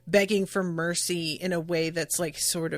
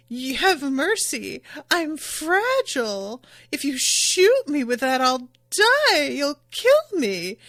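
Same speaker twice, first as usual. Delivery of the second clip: higher, pleading mock fear; mock begging; 5 semitones higher, 4 dB louder than usual. Recapping Iva begging the gunman, mock pleading. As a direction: ham up a fake plea for mercy. Retelling Iva's fake begging.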